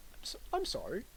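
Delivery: high, hollow "I'm sorry" with no regret; insincere apology. Shown as a demonstration. Comic shows a fake apology, mock insincere. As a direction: sound sorry without meaning it. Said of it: "Sort of in that tone".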